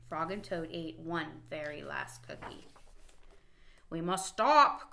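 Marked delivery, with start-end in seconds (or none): 3.9-4.9 slow, louder plea; Toad's mock-urgent call to stop; mild cry. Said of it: "cried Toad".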